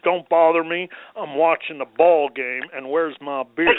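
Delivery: grumpy husband impersonation. Retold or imitated. Husband watching the ball game brushes off wife, grumpy impersonation. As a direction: play a husband annoyed at being interrupted. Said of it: "That was a great impersonation".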